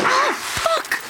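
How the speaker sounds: sudden high yelp of shock and pain; jolted cry when something hits you; sharp startled yell. Acted. Struck by a bat in the dark.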